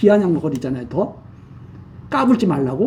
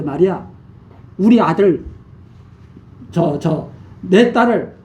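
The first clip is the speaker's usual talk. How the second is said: mildly voiced taunt, scornful lift on 똑같다고; lightly mock the rival king's pride; sneering mockery. Rival king mildly mocking Amaziah's challenge, a sneering taunt. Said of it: "이러면서 비아냥거리는 거죠".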